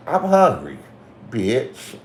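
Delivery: pause, then drop the tag word low; imitated speech habit. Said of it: "They just end the sentence with".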